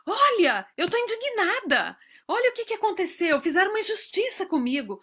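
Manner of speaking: mock indignation. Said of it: "eu quero falar pra todo mundo assim".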